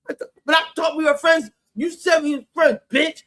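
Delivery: imitating a castmate's put-on sobbing plea; mock fake crying. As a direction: parody her fake voice tremble. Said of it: "that fake voice tremble thing she does".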